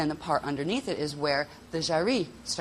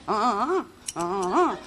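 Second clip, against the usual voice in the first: rising, louder toned syllables with inflection; inflected tones; 4 semitones higher, 4 dB louder than usual. Shown as a demonstration. Teacher showing tones with inflection. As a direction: give each tone an emotional lift. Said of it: "Then you go".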